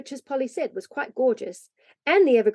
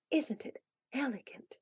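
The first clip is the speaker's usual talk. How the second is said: hushed, admiring whisper; subdued whisper; 3 semitones higher, 11 dB quieter than usual. A narrator's reading. Polly admires the hidden tree, in a subdued whisper. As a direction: whisper it very softly. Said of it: "she asked in a subdued whisper".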